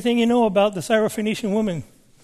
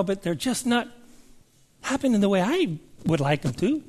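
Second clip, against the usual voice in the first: higher-pitched, gently questioning prayer; mild complaint; 4 semitones higher than usual. Retold or imitated. Minister asking the Lord about missing signs, mild complaint. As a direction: imitate a puzzled, mildly complaining minister. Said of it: "not griping at the Lord".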